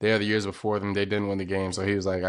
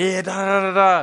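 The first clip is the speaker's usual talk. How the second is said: shrill, high, loud, drawn-out hollering crowd voice; 10 semitones higher, 7 dB louder than usual. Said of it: "they was yelling, like".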